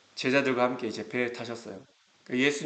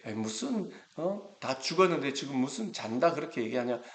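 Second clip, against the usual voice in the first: mocking scoff; 4 dB quieter than usual. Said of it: "비웃으면서 막 그렇게".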